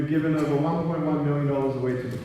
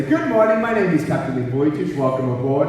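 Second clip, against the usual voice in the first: lightly played pilot welcome; a hint of official cockpit politeness; airline captain greeting; 3 semitones lower than usual. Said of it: "me dressed up as a pilot".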